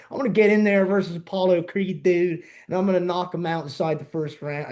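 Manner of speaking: put-on hardcore Philly accent; imitated Philly-accented fighter; Rocky. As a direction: do the boxer's boast in thick Philadelphia vowels. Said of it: "a hardcore Philly accent? He's like".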